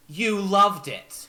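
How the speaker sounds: slow, pressing borrowed voice; slow, insistent in Zalora's voice. Acted. Kenku parroting Zalora, slow and pressing. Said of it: "says in Zalora's voice".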